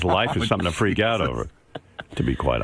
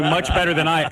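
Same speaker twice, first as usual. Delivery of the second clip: higher mocking parrot of the line; mocking imitation; 7 semitones higher than usual. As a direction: mimic him to tease. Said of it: "he keeps going".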